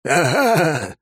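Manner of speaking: high, loud victorious shout; triumphant yell. A narrator's reading. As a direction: crow over the beaten demon. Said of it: "победно проорал мой родитель".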